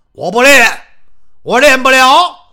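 a loud, boomy big man who talks as if down a barrel; booming muffled voice. Acted. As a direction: Xiong Rengang challenges Xiao Peng in a big booming voice. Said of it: "这熊仁刚一说话是瓮声瓮气".

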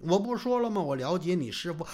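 plain reading voice

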